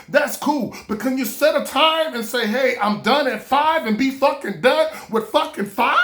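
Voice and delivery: mock exasperated tirade; retold angry rant. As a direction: argue your case insistently. Acting out his heated argument.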